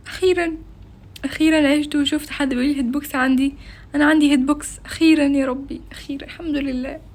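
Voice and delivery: overjoyed. Real, not acted. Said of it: "انا مبسوطة جدًا".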